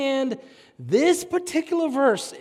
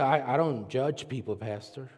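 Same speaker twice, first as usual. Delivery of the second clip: mock congregant; 12 semitones lower, 10 dB quieter than usual. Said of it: "all you looking at me and say".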